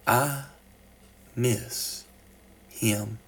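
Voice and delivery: mild choked-up confession; voice cracking. Acted. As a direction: hold back tears on the words. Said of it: "His voice began to crack".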